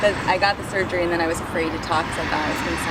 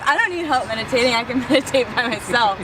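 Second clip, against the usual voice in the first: high, self-mocking protest with laughter; 5 semitones higher than usual. Quoting her old self about yoga, mock protest. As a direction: protest too much, laughing at yourself.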